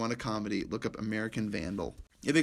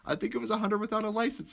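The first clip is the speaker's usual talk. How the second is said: dim officer; 9 semitones higher, faster than usual. Retold or imitated. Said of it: "He goes".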